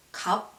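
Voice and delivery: 갑 closed on a B stop, no S; 갑 with the S left silent; only B pronounced. Shown as a demonstration. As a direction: end 갑 on an unreleased B. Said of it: "but only pronounce B".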